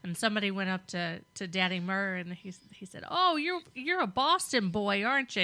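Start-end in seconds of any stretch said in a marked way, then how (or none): 3.1-5.4 higher-pitched quoted stranger; teasing stranger. Retold or imitated. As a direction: imitate a stranger spotting a Boston boy. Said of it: "we were talking that way".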